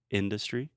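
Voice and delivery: industry as IN-duh-stree; first-syllable stress. Shown as a demonstration. Teacher demonstrates for a student, industry stressed on first syllable. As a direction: stress the IN, relax the middle of industry. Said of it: "the stress is first on the first syllable".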